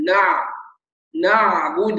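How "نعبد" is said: نعبد with a short flowing ayn; medium ayn. Shown as a demonstration. Teacher models the correct medium-length ayn. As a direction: give the ayn in نعبد a moderate flow. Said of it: "يبقى الصوت يجري جريانا متوسطا".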